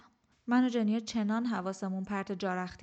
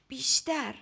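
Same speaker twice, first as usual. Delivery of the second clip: a firm, raised order; commanding; 5 semitones higher, slower than usual. A narrator's reading. Teacher ordering her pupil to push harder, firmly. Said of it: "باگرا دستور داد".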